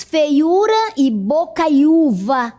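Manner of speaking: "feiura e bocaiúva" with the u after each diphthong stressed. Shown as a demonstration. Teacher showing what the old accent marked, stressed u. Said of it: "pra marcar o som dessa palavra".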